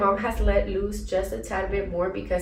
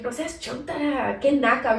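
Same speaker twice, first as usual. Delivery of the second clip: mom's scolding; 5 semitones higher than usual. Retold or imitated. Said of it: "She'd be like".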